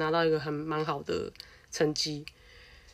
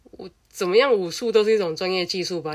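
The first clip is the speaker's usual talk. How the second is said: indignant rant; 2 semitones higher, 6 dB louder than usual. Real, not acted. Ranting at the bullies who staged the fight, indignant and loud. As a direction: vent the indignation outright.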